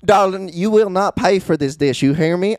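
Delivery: southern waitress. Pretend. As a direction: play a doting diner waitress calling everyone darling.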